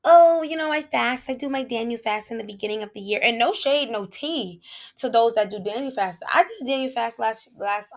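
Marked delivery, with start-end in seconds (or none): 0.0-3.2 lightly mock a routine faster; mock casual boast. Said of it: "It can't be this".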